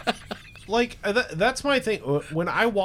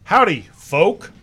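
mock cowboy greeting; 3 semitones higher, 4 dB louder, slower than usual. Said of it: "Howdy, partners".

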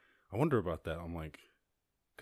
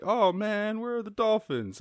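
mock dismay; 13 semitones higher, 7 dB louder than usual. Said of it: "You'd be like".

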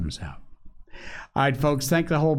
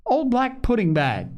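put-on a small child crowing with delight, much higher; merry little crow; 10 semitones higher than usual. A narrator's reading. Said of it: "with a merry little crow".

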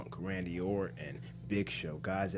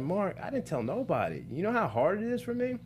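much higher, pleading cry; high-pitched pleading; 11 semitones higher than usual. Retold or imitated. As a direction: voice rising in exasperation. Pleading to Mark.

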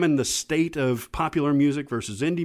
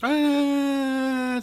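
high whine; 14 semitones higher, 4 dB louder than usual. Pretend. High crying voice, joking.

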